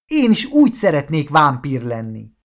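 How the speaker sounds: eager, wishful outburst; enthusiastic. Acted. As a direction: say it carried away with enthusiasm. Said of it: "lehűtötte barátja lelkesedését". (lelkes vágyakozás)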